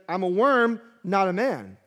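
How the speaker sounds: despairing cry. Retold or imitated. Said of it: "He's like".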